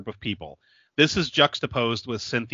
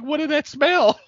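high, loud mock Asian accent; hammed-up stereotypical Asian accent; bad Asian accent; 5 dB louder than usual. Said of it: "And he was like".

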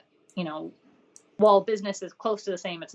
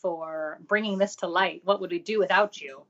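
sarcastic. Pretend. Co-host pretends to thank a famous author, sarcastic. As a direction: pretend to be deeply indebted. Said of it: "It's all sarcasm".

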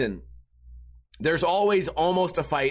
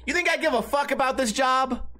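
rude employee; 8 semitones higher than usual. Retold or imitated. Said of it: "this lady said".

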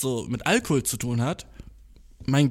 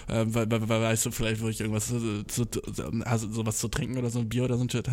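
stuttering; 4 semitones lower, 5 dB quieter than usual. Retold or imitated. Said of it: "hab ich nur fucking gestottert".

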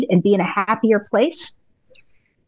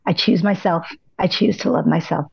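soft, lower self-affirmation; gentle affirmation; 3 semitones lower than usual. Shown as a demonstration. Coach showing listeners a soft, tender self-affirmation. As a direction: say it kindly to yourself. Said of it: "Anytime you have a quiet moment today".

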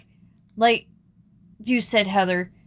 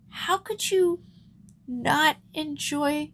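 teasing disbelief; 9 semitones higher than usual. Real, not acted. Teasing friend about baseball.

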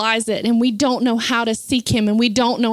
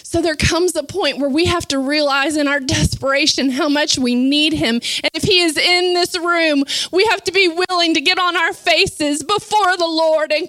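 raised, urgent sermon delivery; higher-pitched fervent preaching; impassioned preaching; 5 semitones higher than usual. Real, not acted. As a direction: preach it with mounting force. Preaches at full force.

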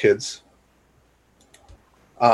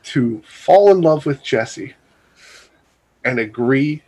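announcer voice. Pretend. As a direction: draw out the mock announcement in pauses. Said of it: "say it in my announcer voice".

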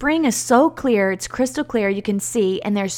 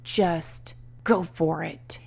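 self-encouragement; 4 semitones lower, 8 dB quieter, much slower than usual. Retold or imitated. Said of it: "I just was like".

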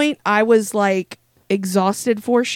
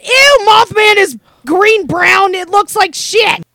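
loud, high, disgusted outburst; disgusted shout; 9 semitones higher, 7 dB louder, slower than usual. Real, not acted. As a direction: yell out in disgust. Reacting to the drink's smell.

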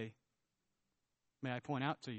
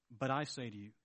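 softer and lower, stress on I; hushed repeat; 6 semitones lower, 6 dB quieter than usual. Retold or imitated. Preacher musing on Jesus's words to the congregation, hushed. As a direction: say it quietly, almost to yourself.

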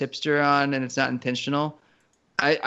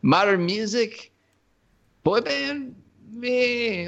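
high, slow, disdainful put-on voice; mock fogey voice; 9 semitones higher, much slower than usual. To co-hosts, mocking his own taste in a stuffy put-on voice. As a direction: sneer at modern pop in a stuffy old voice. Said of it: "someone like myself who's like".

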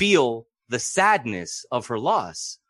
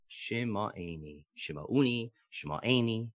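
repeated key word; 3 semitones lower, 10 dB quieter, much slower than usual. Shown as a demonstration. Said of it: "one word that keeps coming up".

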